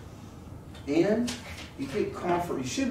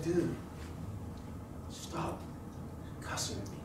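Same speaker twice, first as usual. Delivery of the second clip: retold firm complaint; 3 semitones higher, 12 dB quieter than usual. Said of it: "I said".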